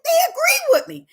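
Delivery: high laughing burst on they agree; amused laugh as the men agree with her. Real, not acted. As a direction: laugh it out in delight.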